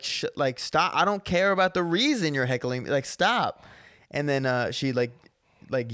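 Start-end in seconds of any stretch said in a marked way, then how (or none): 0.0-3.6 raised annoyed voice. Retold or imitated. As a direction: tell her off from the stage. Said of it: "and I'm just like".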